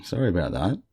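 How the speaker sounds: husky morning voice from a sinus cold; sinus-clogged morning voice. Real, not acted. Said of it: "I've still got my morning voice on".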